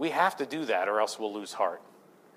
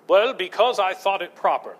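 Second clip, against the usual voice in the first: put-on English accent; 5 semitones higher, 3 dB louder than usual. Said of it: "somebody with an English accent says".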